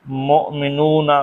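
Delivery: مؤمنون said slowly as mo-mi-noon; slow Arabic pronunciation. Shown as a demonstration. Teacher models the plural for students: slow clear مؤمنون. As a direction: stretch out مؤمنون for the class. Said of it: "تو ہم".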